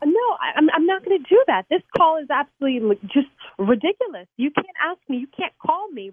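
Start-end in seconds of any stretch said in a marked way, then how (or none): 0.0-4.3 sharp, raised no, louder and higher; indignant outburst at a stranger; angry refusal. Real, not acted. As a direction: refuse hotly, voice jumping up. Angry refusal on prank call.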